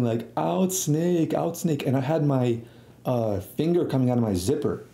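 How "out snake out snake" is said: drawn-out, higher-pitched pretend yell; mock yell. Kid goofing around at camp, mock yelling. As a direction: call it out high without real volume. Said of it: "I was, like, yelling".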